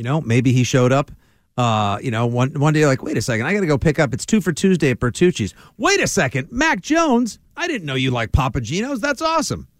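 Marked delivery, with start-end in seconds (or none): 3.0-9.7 high, gushing excited fan voice. Retold or imitated. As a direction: gush like a thrilled fan. Imitating a delighted fan spotting him.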